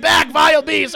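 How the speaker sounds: high, loud theatrical shout; hammed-up storybook villager yell; mock monster-hunter. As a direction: banish a beast like a torch-wielding villager. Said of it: "holding a torch to me".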